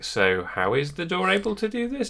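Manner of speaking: high, drawn-out baffled question, pitch climbing; puzzled reaction. Retold or imitated. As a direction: stretch out the question in mock bafflement, voice rising high. Retelling own puzzled reaction to leap.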